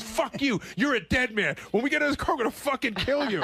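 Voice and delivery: retold threat.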